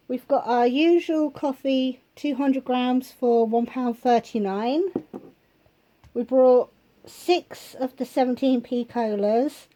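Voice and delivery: slightly out of breath, breathy pauses. Real, not acted. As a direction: talk while short of breath. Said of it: "I'm getting out of breath already now".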